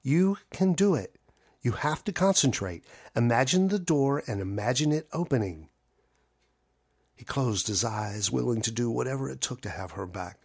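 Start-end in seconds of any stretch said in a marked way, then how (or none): 0.0-5.7 firm, businesslike push. Acted. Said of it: "She sounded like this".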